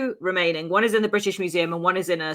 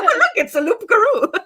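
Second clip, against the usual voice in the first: mock spooky French; 6 dB louder than usual. Joking French werewolf bit.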